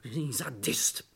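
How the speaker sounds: a hushed seething insult; whispered insult. Acted. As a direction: spit it out under your breath. Hissed insult after shout.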